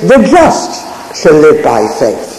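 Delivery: "just" lifted and leaned on, the other words lighter; preacher pressing the word "just" home; stress on JUST. Shown as a demonstration. Preacher showing the congregation Romans' emphasis, stress on "just". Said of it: "we find the emphasis is".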